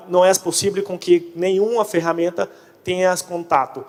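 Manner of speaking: ordinary talk, nothing marked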